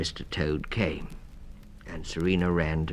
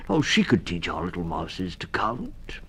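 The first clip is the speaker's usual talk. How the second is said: put-on stammering old toad voice, kind; a dithering, kindly toad; kindly Mister Toad.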